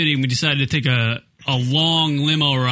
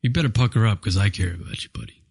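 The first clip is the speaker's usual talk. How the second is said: choked up; 7 semitones lower, faster than usual. Real, not acted. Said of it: "I almost choked up right there".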